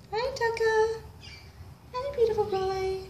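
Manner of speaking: lilting, cooing greeting; doting pet talk. Real, not acted. Greeting the beautiful boy, doting coo. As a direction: greet a beloved animal sweetly.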